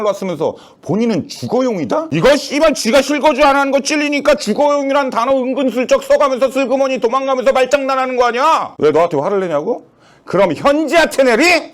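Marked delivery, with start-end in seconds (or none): 2.1-11.7 higher, louder angry tirade; furious rant. Acted. Doctor ranting to friend about the president, furious. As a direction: let the anger boil over.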